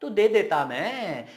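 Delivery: drawn-out "दे देता मैं"; slow, swooping emphasis; insistent reproach. Acted. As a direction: stretch it out as a reproach to a friend. Acted reproach to friend.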